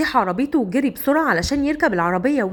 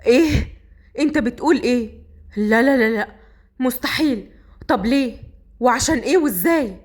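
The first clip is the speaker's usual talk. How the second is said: shocked. Acted. Saqr learns his wife's father is the boss, shocked. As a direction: react in stunned disbelief. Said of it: "صقر بصدمة".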